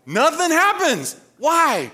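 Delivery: high, loud, drawn-out punchline; emphatic preaching. Real, not acted. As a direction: drive it home to the congregation. Preacher delivers the story's punchline.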